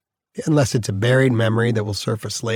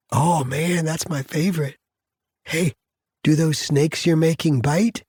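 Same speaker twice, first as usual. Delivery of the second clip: put-on higher, gentle talk to a child; playful daddy voice; 6 semitones higher than usual. Father joking with his small daughter, playful tender voice. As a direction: play along tenderly with a little one. Dad playing along with child.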